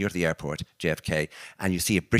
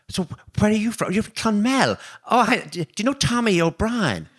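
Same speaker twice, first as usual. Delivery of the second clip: put-on much higher, thicker Irish accent to a fellow countryman; sudden Irish accent; 12 semitones higher, 5 dB louder than usual. Meeting the Irish maid in London, speaking in a broad, higher Irish accent. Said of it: "the voice changes, the accent changes".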